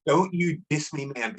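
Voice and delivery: slow, lightly menacing imitation; a hint of a threatening gangbanger, drawn out; scary gang member. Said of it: "He said it in the scariest voice".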